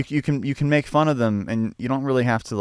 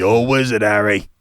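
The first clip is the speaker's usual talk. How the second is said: louder, full British accent, Hagrid-like; 5 dB louder than usual. Shown as a demonstration. Showing his friend how the British accent goes, hearty British accent. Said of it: "in a British accent".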